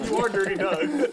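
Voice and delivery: excited. Real, not acted. Laughing teasing at poker table.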